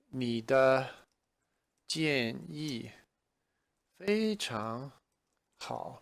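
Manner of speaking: mild approving reply, word by word; lightly voiced friend. Shown as a demonstration. A friend lightly praises the suggestion, slowly. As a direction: agree like a friend. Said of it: "somebody else who might say".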